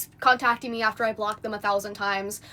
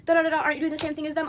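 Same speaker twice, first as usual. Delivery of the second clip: higher, softer mimicking voice; mock critic; 5 semitones higher, 3 dB quieter, faster than usual. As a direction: parrot a nagging objection in a light, higher voice. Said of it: "Before somebody's like".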